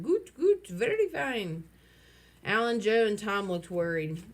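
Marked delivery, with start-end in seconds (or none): 0.0-1.6 high, loud crazy cry. A narrator's reading. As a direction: call it out like a mad bird.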